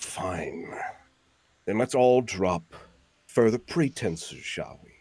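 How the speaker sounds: voice dropped down into a low register. Voicing a turtle priest baring his teeth: low tone. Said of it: "a low kind of, like, tone".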